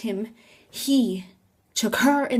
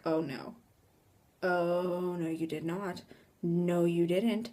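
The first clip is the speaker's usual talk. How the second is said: hushed disbelief; 3 semitones lower, 7 dB quieter, slower than usual. Retold or imitated. Teller denies friend saw anything.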